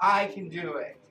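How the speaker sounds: firm, proud I can do it while flexing; determined cheer. Shown as a demonstration. Teacher shows kids how to flex and cheer, proudly. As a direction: say it like you just flexed your muscles. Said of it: "flex and say".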